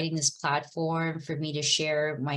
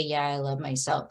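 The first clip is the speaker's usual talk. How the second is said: half-hearted; 5 semitones lower, 4 dB quieter than usual. Shown as a demonstration. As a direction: lower and softer, a throwaway "Yeah, I love myself" with no conviction. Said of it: "you don't just say".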